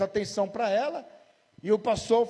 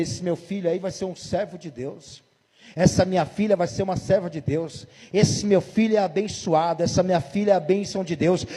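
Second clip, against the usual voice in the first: blessing; 3 semitones lower than usual. Retold or imitated. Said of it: "Ou você quer dizer".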